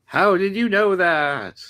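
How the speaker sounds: slow, high outraged demand; enraged. Acted. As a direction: burst out in rage. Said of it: "expression bursts into rage".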